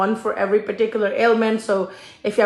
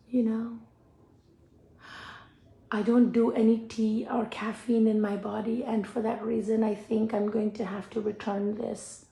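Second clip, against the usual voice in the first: radio broadcaster voice; 9 dB quieter than usual. Retold or imitated. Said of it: "let me do it in my radio broadcaster voice".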